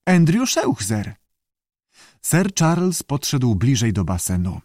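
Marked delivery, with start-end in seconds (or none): 0.1-1.2 high, slow squawky self-introduction; screechy voice. A narrator's reading. Salamander introduces itself to the director, screechy. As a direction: draw the name out high. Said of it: "powiedział skrzykliwy głos".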